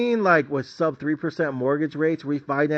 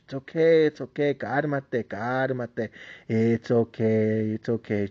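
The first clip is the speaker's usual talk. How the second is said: soothing. Retold or imitated. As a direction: hush them gently like a crying kid. Comforting the crying graduate.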